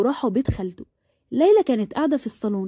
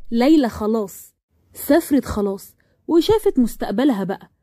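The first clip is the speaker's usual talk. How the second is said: gloating, taunting tone; spiteful. Acted. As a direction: rub it in with mild malice. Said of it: "ردت أمل بكل كيد وقالت".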